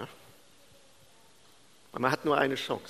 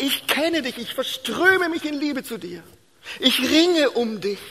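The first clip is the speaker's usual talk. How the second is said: hoch und eindringlich werbend; inbrünstige Liebeszusage; 10 semitones higher, 4 dB louder, slower than usual. Retold or imitated. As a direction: steigere dich bis zum lauten, gedehnten Schluss. Jesu Liebeszusage, inbrünstig gepredigt. (leidenschaftlich gepredigte Zusage, hohe Stimme)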